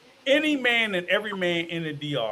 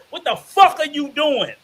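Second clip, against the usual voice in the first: incredulous scolding; 4 semitones higher, 6 dB louder, faster than usual. Retold or imitated. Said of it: "I was sitting there saying".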